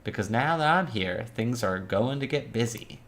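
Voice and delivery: measured noir visual-novel narration; story narration. A narrator's reading. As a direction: read it like a crime-thriller narrator, lingering on phrases. Reads the visual novel's narration aloud.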